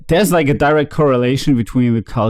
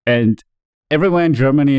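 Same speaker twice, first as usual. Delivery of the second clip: ordinary talk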